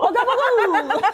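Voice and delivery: high, laughing mock-Italian accent; giggly, hammed-up Italian accent. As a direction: belt it as a cartoon Italian-American accent. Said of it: "Now we're just Italian".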